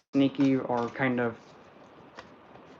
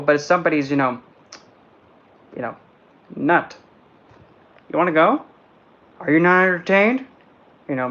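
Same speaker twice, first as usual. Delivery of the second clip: sassy challenge, a bit louder; taunting card figure; 3 semitones higher, 3 dB louder than usual. Retold or imitated. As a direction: pick a fight, mock tough. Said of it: "She's like".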